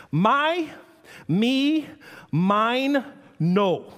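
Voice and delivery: hammed-up toddler claiming everything; toddler words. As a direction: bark them like a greedy toddler. Toddler vocabulary acted out.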